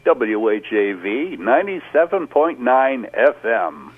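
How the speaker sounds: slow, deliberate station ID; radio announcer voice. Shown as a demonstration. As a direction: announce the call letters like a DJ. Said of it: "your best W R A Z radio voice".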